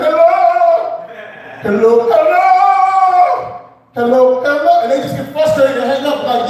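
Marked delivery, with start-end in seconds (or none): 0.0-4.8 absurdly exaggerated Indian accent, high and drawn out; worse Indian accent. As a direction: sing out a badly overdone Indian-accented hello. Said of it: "I just talk with a worse accent".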